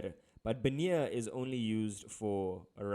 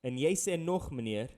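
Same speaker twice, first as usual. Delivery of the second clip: indignant fisherman; 4 semitones higher, 6 dB louder than usual. Acted. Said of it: "change up my color now".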